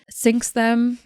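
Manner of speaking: ordinary delivery, nothing marked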